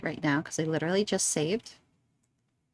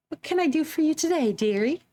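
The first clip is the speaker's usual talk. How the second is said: put-on old lady voice; 7 semitones higher than usual. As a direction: croon like a sweet old granny. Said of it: "I don't know how to do an old lady voice".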